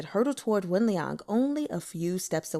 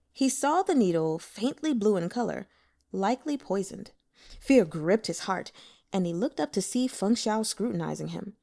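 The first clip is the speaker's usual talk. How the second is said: usual speaking voice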